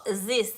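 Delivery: "this" said with a Z for the TH; imitated mispronunciation. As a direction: mimic "this" as "zis". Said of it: "you said this instead of T H".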